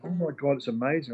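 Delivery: gushing praise. Retold or imitated. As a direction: imitate diners raving over simple food. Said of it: "People were going".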